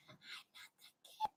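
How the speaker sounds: whispered refusal; flat refusal. Retold or imitated. Answering people who push rides, whispered stubborn refusal. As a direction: hush it like a stubborn secret. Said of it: "I'm like".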